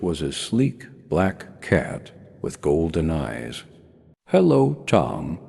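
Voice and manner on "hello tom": put-on light British accent, Hello lifted high and bright. A narrator's reading. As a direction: greet him in a smooth British accent. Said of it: "in a smooth British accent".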